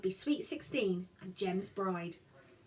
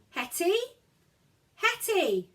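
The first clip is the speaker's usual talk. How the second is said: higher, louder call across the yard; 9 semitones higher, 6 dB louder, slower than usual. Acted. Boy calling for his hiding sister, loud. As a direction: call her name into the bushes. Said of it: "Jem called".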